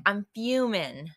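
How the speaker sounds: mock British accent, drawn-out slow delivery. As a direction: imitate British slang, stretching it out. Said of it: "makes me wish I was British".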